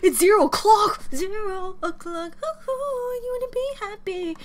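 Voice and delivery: high, loud excited exclaim; excited squeal. Real, not acted. Fan shouting with delight at a song reference, high and bright. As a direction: burst out as you spot the reference.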